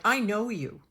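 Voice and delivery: loud, eerie, drawn-out "I know you"; eerie insistence. Retold or imitated. Telling a frightened doctor she knows him, loud and eerie. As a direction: lean on "I know you" like you can see their soul. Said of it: "it was like".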